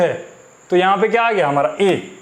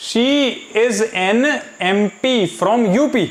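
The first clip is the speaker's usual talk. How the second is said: slow dictation; much slower than usual. Shown as a demonstration. Teacher reads option slowly.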